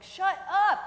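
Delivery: high, loud imitated shout; retold shout. Teacher snapping at noisy kids, mock shouting. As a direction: bark it out as a re-enacted outburst. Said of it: "I just shouted out".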